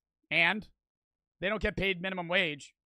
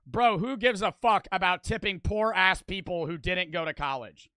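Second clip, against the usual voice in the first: exaggerated quote; 4 dB louder than usual. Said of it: "and I quote".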